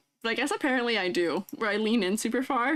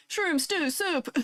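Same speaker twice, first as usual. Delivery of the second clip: slow careful; 5 semitones higher, much slower than usual. Shown as a demonstration. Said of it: "Say that five times fast".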